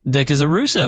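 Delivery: a hint of Bostonian on "rooster"; lightly Boston-accented example sentence. Shown as a demonstration. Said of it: "with a bit of that Bostonian twist".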